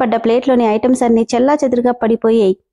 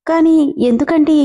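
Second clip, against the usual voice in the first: higher, timid question; fearful; 4 semitones higher than usual. Acted. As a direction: ask it scared, barely daring. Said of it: "భయంగానే". (భయంగా అడగడం)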